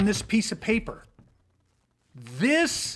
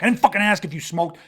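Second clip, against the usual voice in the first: mock snarl at a stranger; hammed-up hostile comeback; aggressive retort; 5 dB louder than usual. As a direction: snap back like a street tough. Acted aggressor snaps back.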